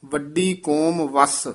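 ਵੱਡੀ ਕੌਮ ਵਸ with a short halt after ਵਸ; brief pause. Shown as a demonstration. Teacher shows where to halt, brief pause after ਵਸ. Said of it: "ਇੱਥੇ ਠਮਕ".

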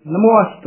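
ਨਮੋ ਅਸਤ joined, a still heard; correct pronunciation. Shown as a demonstration. Teacher models for reciters, joined ਨਮੋ ਅਸਤ. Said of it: "ਇਸ ਤਰ੍ਹਾਂ ਉਚਾਰਨ ਕਰਨਾ ਹੈ".

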